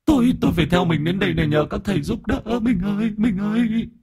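possessed man crying to his wife, high eerie voice; strange ghost voice. Acted. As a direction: plead like a tormented spirit calling his wife. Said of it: "nói bằng cái giọng kỳ quái".

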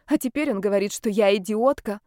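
plain reading voice

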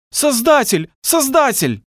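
очень высокий причитающий крик; взывай с плачем, на высоком надрыве; плачущий стон. A narrator's reading. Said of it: "Плачущие стоны сливались в гул". (плачущий вопль)

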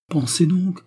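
breathless whispered rapture; ecstatic whisper. A narrator's reading. Anna telling Suzy she is free of her, ecstatic whisper. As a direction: hush it out in delight. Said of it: "reprend Anna, extasiée".

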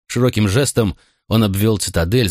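ordinary delivery

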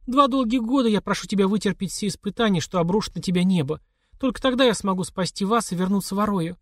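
a mother begging her son to endure; mother's voice. A narrator's reading.

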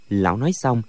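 usual speaking voice

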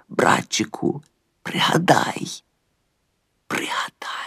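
breathy fading whisper; soft whispered plea to remember. A narrator's reading. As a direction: whisper it, slow and insistent. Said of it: "шепоче він".

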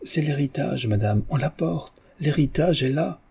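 high, breathless excited announcement; crying out wildly. Acted. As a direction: announce the news half out of her mind. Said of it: "criant follement".

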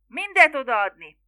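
loud, high demand; crowd roar. A narrator's reading. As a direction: shout it as one of the mob. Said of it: "rivolták a falubeliek kórusban". (hangosan rivallt követelés)

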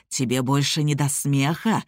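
low, growling beast voice; lightly voiced tiger growl; inhuman growling voice. A narrator's reading. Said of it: "проговорил Аргольд чужим, почти нечеловеческим голосом". (чужой, рычащий голос)

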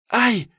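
sharp, very high yelp; cry of pain. A narrator's reading. Injured girl yelping as the sotnik presses her leg, sharp pain cry. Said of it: "вскрикнула от боли".

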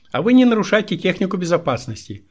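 high, loud reproachful comeback; indignant telling-off, acted; scolding retort. Svetlana scolds the injured boss.

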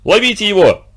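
громко и высоко, в испуге; крикнуть, чтобы бандит не сбежал; испуганный крик. A narrator's reading. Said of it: "крикнул в испуге Квас". (Квас в испуге кричит ребятам, громко)

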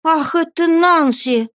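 slow, high exclamation of recognition; surprised cry. Acted. Oliver recognizes Nancy's face, slow surprised cry. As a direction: gasp her name in shock. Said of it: "с удивлением воскликнул Оливер".

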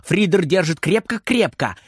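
ordinary delivery

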